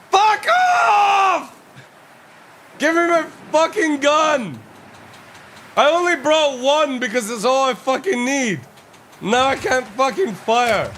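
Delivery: real exasperated shouting; angry yelling. Real, not acted. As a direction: tell the NPC off at full volume. Yelling at an NPC.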